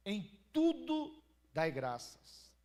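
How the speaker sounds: ringing pulpit declaration, drawn out; scripture proclamation. Acted. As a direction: proclaim the verse slowly and forcefully. Repeats the Bible verse.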